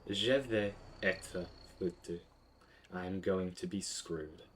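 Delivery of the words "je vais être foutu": slow, careful French sentence; a teacher modelling the sentence; slow demo. Shown as a demonstration. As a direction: spell out the full phrase slowly. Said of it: "so this complex sense is".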